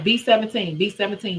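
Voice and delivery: calling the number like a caller; bingo caller. Shown as a demonstration. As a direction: announce it to the bingo hall. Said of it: "I'm a fun bingo caller".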